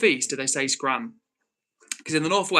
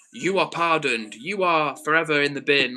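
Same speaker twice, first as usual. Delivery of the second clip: mock supreme leader; 4 dB louder than usual. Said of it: "some sort of supreme leader who's like".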